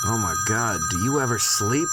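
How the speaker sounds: you're sick of this caller already; exasperated. Acted. Woken by a phone call.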